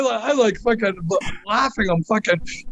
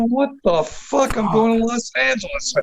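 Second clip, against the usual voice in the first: retelling his stunned shout at the free ticket, much higher; astonished shout; 5 semitones higher than usual. Retold or imitated. To the listener, retelling his reaction to the ticket: stunned shout. Retold shock at plane ticket.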